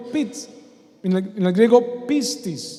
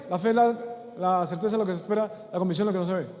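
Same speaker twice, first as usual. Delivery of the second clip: rote recitation; 3 dB quieter, much faster than usual. Shown as a demonstration. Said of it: "Porque es muy fácil decir".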